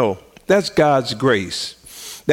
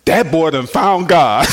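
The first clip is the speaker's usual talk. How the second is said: joyful shout; slower than usual. Retold or imitated. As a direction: shout it out with joy. Joyful announcement to old friend.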